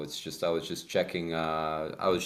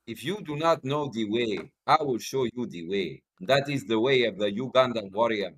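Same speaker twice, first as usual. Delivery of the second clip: put-on African accent. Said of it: "taking out my African accent".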